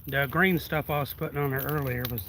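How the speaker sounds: out of breath, breathing heavily; puffing between words after bending over. Real, not acted. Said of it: "I'm breathing like a fat kid".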